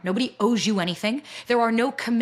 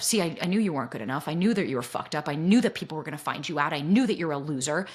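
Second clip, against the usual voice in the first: low, knowing inner critic; 5 semitones lower than usual. Acted. Guest voices her own core belief, as inner critic. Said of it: "this is triggering my core belief of".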